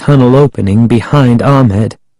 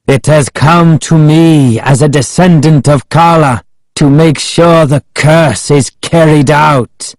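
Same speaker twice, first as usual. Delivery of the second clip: raised, solemn declaration; Ahmed addressing the priestess; 5 semitones higher than usual. A narrator's reading. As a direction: proclaim it up to the heavens. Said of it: "as if speaking directly to the priestess".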